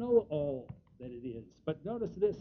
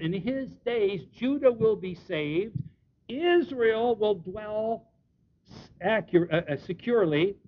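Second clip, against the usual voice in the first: emphatic scripture reading; 4 semitones higher, 4 dB louder, slower than usual. Acted. Re-reads the prophecy aloud.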